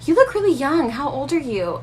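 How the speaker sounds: high, curious mock salesgirl voice; mimicking the saleswoman. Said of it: "she goes".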